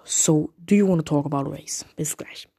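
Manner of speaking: Flüstern zum Abschied; whispered sign-off. Real, not acted. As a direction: lean in close and whisper it. Host whispers title and goodbye.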